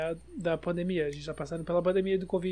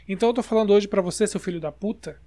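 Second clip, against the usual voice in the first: scolding; 5 dB louder than usual. Real, not acted. Mock telling off rule breakers.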